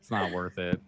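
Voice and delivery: laughing-crying. Real, not acted. After laughing fit.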